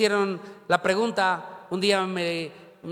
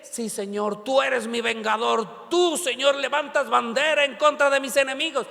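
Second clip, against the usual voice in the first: fervently declaiming a prayer, raised pitch; imitated impassioned prayer; mock fervent prayer; 3 semitones higher than usual. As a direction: plead to the Lord as your avenger, hammed-up. Imitating a vengeful believer's prayer.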